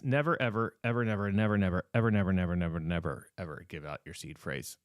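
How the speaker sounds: each never and ever stressed in a chain; emphatic never ever. Real, not acted. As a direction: pound home the warning. Repeated emphatic warning.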